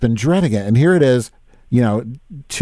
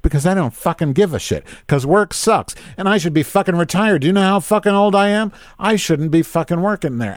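imagined retort; 6 semitones higher than usual. Retold or imitated. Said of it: "I wanna say".

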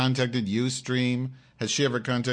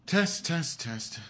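high mic check; 8 semitones higher, much slower than usual. Shown as a demonstration. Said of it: "mic check".

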